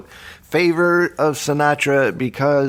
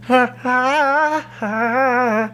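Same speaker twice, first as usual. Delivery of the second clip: singer voice vocalizing; 13 semitones higher than usual. Pretend. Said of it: "He's got one of these voices".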